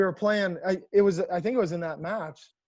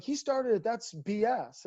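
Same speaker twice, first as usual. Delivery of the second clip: high-pitched mock protest, drawn out at the end; indignant protest; 5 semitones higher, slower than usual. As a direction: plead your case like a wronged player. Player retelling his protest to coach.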